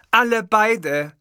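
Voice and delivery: slow, loud command to calm down; loud firm order. Acted. Producer loudly ordering both men to calm down. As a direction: stop them both firmly. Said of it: "sagte die Bellini jetzt laut".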